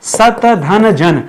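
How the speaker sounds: सत धन जन said very slowly, word by word; slow word split. Shown as a demonstration. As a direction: break सत धन जन into its parts, slowly. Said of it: "दो शब्दों से मिलकर बना है".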